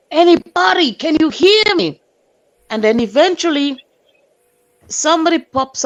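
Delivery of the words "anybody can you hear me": high, loud calls up the stairs; shouting up. Retold or imitated. Neighbor shouting up through the smoke, loud and urgent. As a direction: call out loud to anyone upstairs. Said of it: "and I'm screaming".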